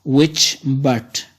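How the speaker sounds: "Which" light, "but" leaned on; stress on but. Shown as a demonstration. Teacher shows the iambic foot, stress on but. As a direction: land on "but". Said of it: "which is unstressed but is stressed".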